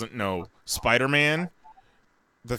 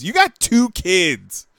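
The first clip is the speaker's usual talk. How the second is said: slow, pointed repeat to a friend; slow emphatic repeat; 5 semitones higher, 4 dB louder, slower than usual. Real, not acted. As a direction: press the point home slowly.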